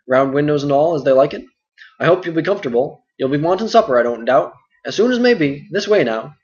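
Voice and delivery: hearty and full of chatter; talkative innkeeper Butterbur. Acted.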